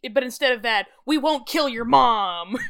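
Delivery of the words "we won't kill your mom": slow, louder poster slogan; mock recruiting slogan. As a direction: proclaim it like a recruiting ad.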